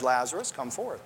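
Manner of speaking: just say it quietly, no drama needed; simple quiet command. Shown as a demonstration. Preacher imagining Jesus calmly calling Lazarus out, quietly. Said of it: "he might have just said".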